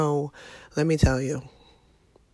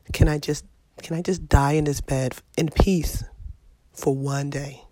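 loud plea; 5 dB louder than usual. Real, not acted. Repeats plea loudly.

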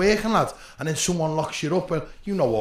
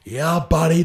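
imitating a vocal American fan, louder; lightly mimicked crowd shout; mock Yank shout; 5 dB louder than usual. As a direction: call it out like an American spectator. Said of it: "dead fucking vocal, you know, they just shout".

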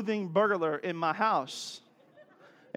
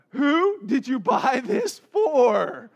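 slow, high, loud shout; calling out; 7 semitones higher, 8 dB louder, much slower than usual. Retold or imitated. Dad asking mom who owns the clothes, calling out. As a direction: holler it across the house, words stretched.

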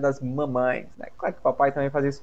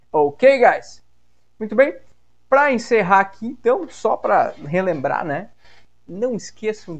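much louder, higher wrap-up; energetic outro; 7 semitones higher, 8 dB louder than usual. Real, not acted. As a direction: call out to listeners. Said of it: "podcast sign-off". (encerramento animado, bem mais alto e agudo)

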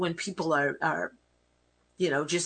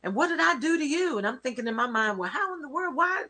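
offended complaint; 10 semitones higher than usual. Retold or imitated. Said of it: "I would be like".

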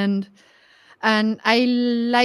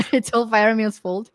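laughing; 2 semitones higher, 5 dB louder than usual. Real, not acted. Laughing echo of friend's joke.

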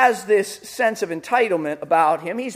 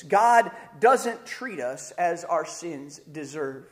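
P=B; slow emphasis; 5 semitones lower, 4 dB quieter, slower than usual. Shown as a demonstration. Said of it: "slow key truth".

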